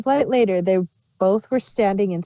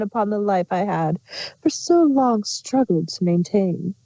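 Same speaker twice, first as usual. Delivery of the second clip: hammed-up tragic queen. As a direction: ham up the woe like a stage tragedian. Chrysalis's mock tragic lament.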